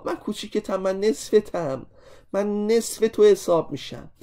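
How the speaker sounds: small inscribed angle speaking. Retold or imitated. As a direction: play the little angle pleading to the arc, gently. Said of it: "محاطی میگفت آ". (صدای کوچولوی زاویهٔ محاطی، کمی زیرتر و آرام)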